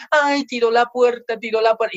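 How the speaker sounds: hammed-up alarmed fretting; mock frightened parent. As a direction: flap anxiously over a child's outburst. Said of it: "andan con miedo a sus hijos".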